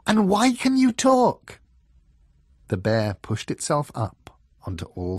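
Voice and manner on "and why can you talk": loud, high-pitched demand; exasperated. A narrator's reading. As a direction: insist on an explanation, fed up.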